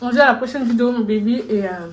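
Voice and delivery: talking with a mouthful; words round a bite of food; mouth full. Real, not acted. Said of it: "Parle pas la bouche pleine". (parler la bouche pleine)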